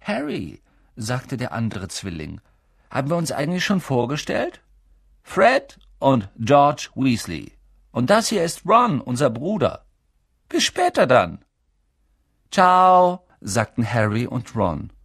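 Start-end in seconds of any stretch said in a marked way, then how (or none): 0.0-11.5 chatty twin. Acted. Twin introducing himself. 12.5-13.2 cheerful goodbye. Acted. Boys saying goodbye.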